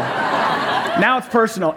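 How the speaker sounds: drawn out slowly with a laugh; mock serious, laughing. Pastor repeats the line to the congregation, slow and laughing. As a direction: savour it, chuckling.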